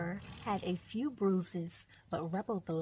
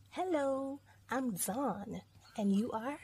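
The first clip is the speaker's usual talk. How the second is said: lightly voiced friendly cub, higher on the hello; bear cub; 5 semitones higher than usual. Voicing bear cub in story.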